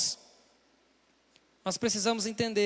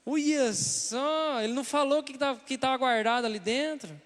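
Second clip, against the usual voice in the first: devil's whisper in the ear; slower than usual. Retold or imitated. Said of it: "o diabo tá falando assim".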